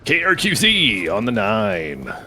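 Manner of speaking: lightly voiced radio DJ, slow; a hint of a morning radio host. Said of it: "he was a radio D J".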